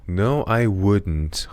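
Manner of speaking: "No, I wouldn't" stretched out, NO leaning heavily. Shown as a demonstration. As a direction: drag every word for learners.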